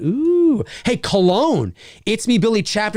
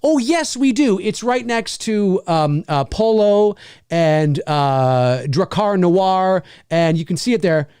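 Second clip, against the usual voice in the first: chipper 1950s ad. Pretend. Store clerk answers the shopper.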